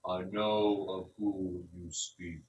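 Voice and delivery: very slow, cold refusal from an ancient tree; old tree turning the druid away; dismissive tree spirit. Acted. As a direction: drag the words out like creaking timber.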